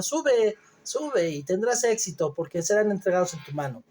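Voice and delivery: mock encouragement, dripping irony; ironic. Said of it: "se lo dijo con ironía". (con ironía burlona, alargando el sube)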